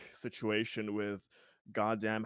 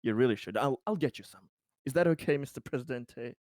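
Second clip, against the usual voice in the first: overeager, pushy host, climbing much higher on the repeated offer; eager host; 3 semitones higher than usual. Acted. Conrad pushing local beer on the President, overeager and much higher. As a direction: press the beer on him like a nervous flatterer.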